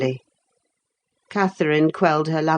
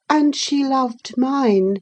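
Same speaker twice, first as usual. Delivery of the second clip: slow, smug taunt; slow taunting boy; 9 semitones higher, slower than usual. Acted. Boy goads his cousin, slow and smug. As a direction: drag it out to goad her.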